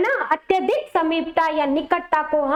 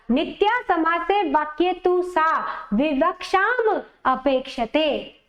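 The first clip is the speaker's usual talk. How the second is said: recited in separate segments; broken into parts. Shown as a demonstration. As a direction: pause after "सा विवक्षाम" before "अपेक्षते". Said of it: "खंडशः बोला है".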